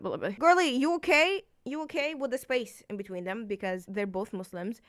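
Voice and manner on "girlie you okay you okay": caring hero. Retold or imitated. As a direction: check on her like a worried friend. Hero voiced comforting crying girl.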